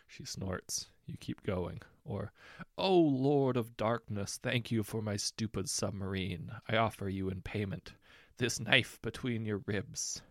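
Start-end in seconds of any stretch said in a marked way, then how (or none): 2.8-10.2 a mock-solemn plea with a sly threat; mock prayer.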